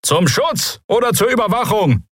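high-pitched heckle from a crowd; shouted challenge. A narrator's reading. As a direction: call out in suspicion. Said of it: "rief jemand". (misstrauischer, lauter Zwischenruf)

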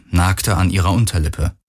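plain reading voice

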